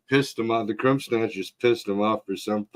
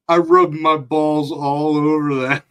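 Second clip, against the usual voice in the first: laughing confession; 6 semitones higher, 5 dB louder than usual. Retold or imitated. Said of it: "He's like".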